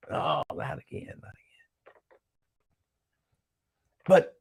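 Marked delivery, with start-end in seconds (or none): 0.1-1.9 whispered "not again", fading to breath; mock despair. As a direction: groan it out like a beaten fan.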